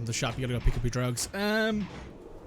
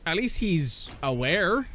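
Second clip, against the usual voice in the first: at least he's aware, stretched slow, rising at the end; slow, wry rising take on at least he's aware; drawn-out grudging concession; 4 semitones higher, much slower than usual. Shown as a demonstration. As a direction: give it grudgingly, slowly, with a lift. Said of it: "That's probably the nicest way I can say it".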